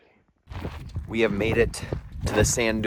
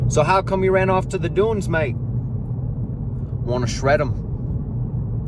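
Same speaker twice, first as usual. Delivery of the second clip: loud, high-pitched Australian surfer bro; hammed-up Australian surfer impression; Australian surfer accent; 8 semitones higher, 5 dB louder, slower than usual. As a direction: put on an excited Aussie surfer accent. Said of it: "That's my accent. That's my impression".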